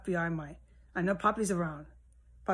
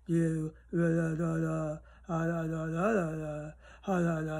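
mimicked mumbling; 3 semitones lower than usual. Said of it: "talking like that".

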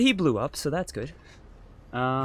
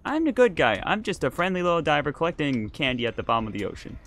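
higher, louder, protesting innocence; indignant insistence; 4 semitones higher, 4 dB louder than usual. Real, not acted. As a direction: insist on it, mock-offended. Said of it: "You are definitely not the good guy".

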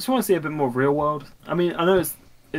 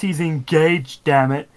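mock indignation; 6 dB louder, slower than usual. Mock indignation about Kirito.

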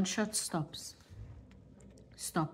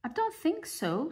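ugly duckling; 10 semitones higher than usual. Acted. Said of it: "said the ugly duckling".

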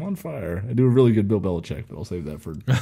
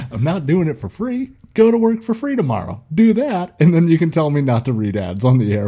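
much higher and louder, hammed-up indignant yelling; mock rant; 7 semitones higher, 6 dB louder than usual. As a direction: rant it like a fed-up comedian reading ads. Comedian's rant retold.

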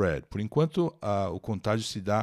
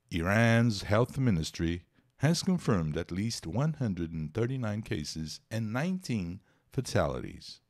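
slow, careful English news reading; teacher reading an English news text aloud; slower than usual. Acted. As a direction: read the headline like a newscaster.

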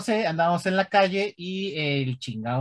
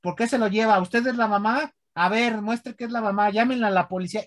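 higher suspicious bystander voices; imitating bystanders; 5 semitones higher than usual. Bystanders questioning the mother, higher accusing voice. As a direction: question the mother like nosy onlookers. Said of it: "la gente se empezó a acercar y decir".

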